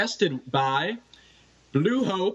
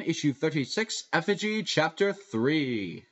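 announcer voice. Pretend. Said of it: "in your best announcer voice".

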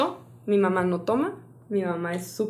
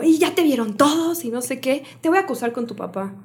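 scolding mother; 4 semitones higher than usual. Retold or imitated. Imitating mother scolding her.

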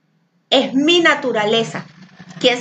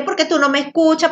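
mock rude outburst, higher and fast; rude, rushed; 4 semitones higher, faster than usual. Teacher acting out insulting people after bottling up, rude and rushed. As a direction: blurt a mock accusation in a rush. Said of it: "hablar de manera grosera, atropellada, insultando".

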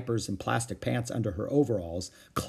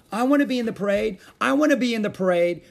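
put-on much higher, loud childish chant; cried out; 10 semitones higher, 6 dB louder, faster than usual. A narrator's reading. The children clamouring to join the parade. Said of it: "cried the others".

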